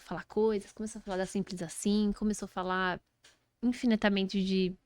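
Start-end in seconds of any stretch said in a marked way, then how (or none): none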